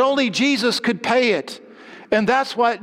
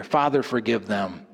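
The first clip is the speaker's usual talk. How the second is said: much lower and softer, a tender plea; hushed prayer; 11 semitones lower, 5 dB quieter than usual. Acted. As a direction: breathe the prayer out gently. Quoting Jesus' prayer, hushed.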